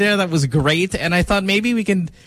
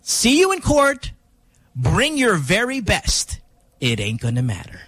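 slow dramatic threat. Retold or imitated. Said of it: "the line at the end was".

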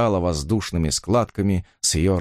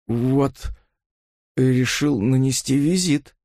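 hoarse; 4 semitones higher, slower than usual. A narrator's reading. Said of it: "хрипло произнёс он".

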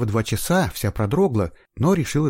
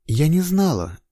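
guilty; 8 semitones higher, 4 dB louder, slower than usual. A narrator's reading. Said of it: "виновато ответила девушка".

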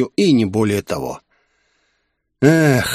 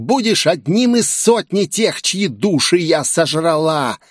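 higher, menacing demon voice; demoness threat; 5 semitones higher than usual. Acted. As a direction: play a hungry demoness gloating over souls. (угрожающий голос демонессы, выше обычного)

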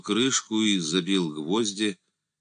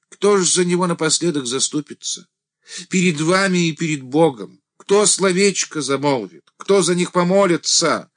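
high, loud pleading questions; impassioned deacon; 12 semitones higher, 7 dB louder than usual. A narrator's reading. The deacon pleads before Andrey and God, high and loud. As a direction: plead desperately for the people.

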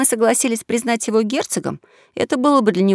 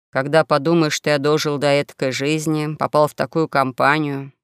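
understated lament, lower than the narration; lamenting young swindler; 5 semitones lower than usual.

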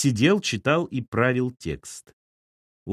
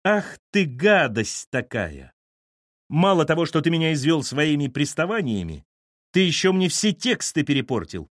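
furious; 4 semitones higher than usual. Acted. Allochka attacks Lyosha.

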